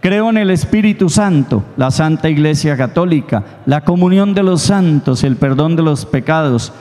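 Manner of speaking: steady, measured prayer recital; recited creed. Acted. Priest leads the congregation in the Creed, steady recital. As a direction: lead the congregation through the creed.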